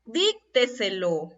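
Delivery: Dícteselo slowly, leaning on "Díc"; stress on DIC. Shown as a demonstration. Teacher gives an example, "Díc" stressed in Dícteselo. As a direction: stretch out Dícteselo from a stressed first syllable. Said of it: "La mayor fuerza de voz está aquí en la sílaba dic".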